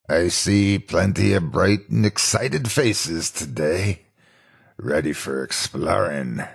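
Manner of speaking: lightly voiced pirate skit. Animatronic repeating his kids' show skit, lightly voiced pirate. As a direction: recite the old stage skit. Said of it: "repeating his skit".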